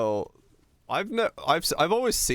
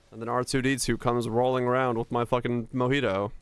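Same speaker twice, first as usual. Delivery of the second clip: usual speaking voice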